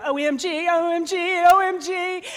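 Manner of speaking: high, loud, singsong OMG chant; excited squeal. Pretend. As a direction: shriek it like a thrilled teenager. Brothers texting friends in shock.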